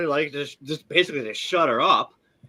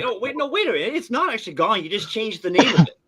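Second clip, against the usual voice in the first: mock exasperated retort; 7 semitones higher than usual. Retelling his own retort.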